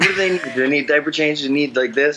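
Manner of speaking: high, fast, frantic, fussing tone.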